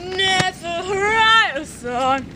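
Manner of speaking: slow, lightly mumbled hobo voice; mumbly rambling drifter drawl. Pretend. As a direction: ramble like a drifter, dragging the words. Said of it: "That's a hobo voice".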